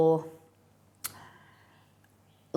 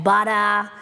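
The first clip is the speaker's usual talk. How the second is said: butter said the really Aussie way; broad Aussie accent. Shown as a demonstration. Streamer showing chat how really Aussie sounds, broad Aussie. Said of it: "if I spoke really Aussie".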